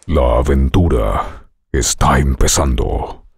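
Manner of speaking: deep, slow epic trailer narration; movie trailer voice. Shown as a demonstration. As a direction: announce it like a blockbuster trailer. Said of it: "entrenando tu voz hoy con trailers de películas".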